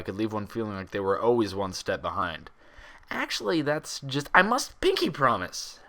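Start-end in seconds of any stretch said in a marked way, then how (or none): 3.1-5.8 loud interruption. A narrator's reading. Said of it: "Pinkie Pie interrupted loudly".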